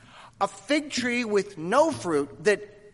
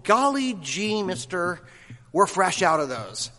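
put-on wholesome 1950s kid. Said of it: "the reply is something like this".

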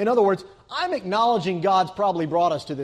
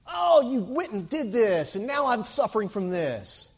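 put-on Jewish accent; 6 semitones higher than usual.

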